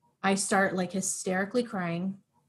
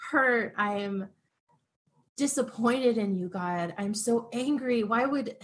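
raw anguished venting; 3 semitones higher than usual. Retold or imitated. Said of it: "no censored words".

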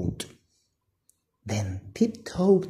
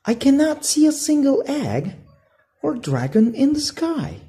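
put-on high, quick little-boy voice, a touch glum; a kid let down by the empty sky; Patty, disappointed; 12 semitones higher, 3 dB louder, faster than usual. Patty complains to Flynn about the empty hatchery, mildly glum. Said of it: "said Patty with a sigh".

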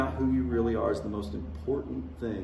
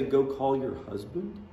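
slow disbelieving quote. Retold or imitated. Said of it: "and you say".

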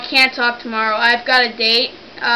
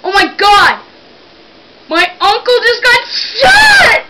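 hammed-up panicked shout, much higher and louder; fake panic; 8 semitones higher, 6 dB louder than usual. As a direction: scream it like a staged emergency. Prank caller fakes an emergency.

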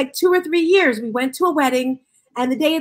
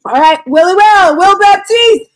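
loud intro; 5 semitones higher, 9 dB louder than usual. Real, not acted. Host loudly introducing guest.

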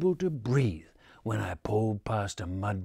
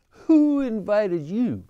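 higher, louder, slow cry with WHO hit hard; indignant holler; 9 semitones higher, 7 dB louder, slower than usual. Acted. Narrator squashed by possum, slow outraged holler. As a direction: demand it, outraged and loud. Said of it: "I hollered".

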